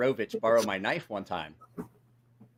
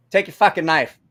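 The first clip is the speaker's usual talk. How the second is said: retold anger; 3 semitones higher, 5 dB louder than usual. Retold injured friend returns knife angrily.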